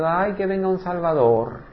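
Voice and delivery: hammed-up plaintive ay; mock whining plea. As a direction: beg dramatically to be rescued.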